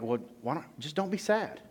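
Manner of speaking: airy, dismissive brush-off rising high on "be"; dismissive friend. Retold or imitated. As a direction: toss it off like it's obvious. Mocking an unhelpful friend.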